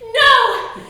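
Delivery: loud emphatic no; shouted no. Acted. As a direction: bark it at the crowd. Rhonda answers her own question.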